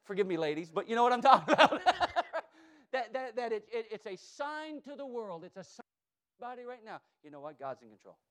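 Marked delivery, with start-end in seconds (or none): 3.7-8.2 dropping to a hush. Real, not acted. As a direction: pull them in with a hushed voice. Drops voice for conviction.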